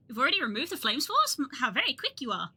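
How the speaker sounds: lightly voiced game character, polite; a hint of a courteous townsfolk voice; NPC quest giver. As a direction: read the quest giver's lines with a touch of character. Reads NPC quest-giver lines.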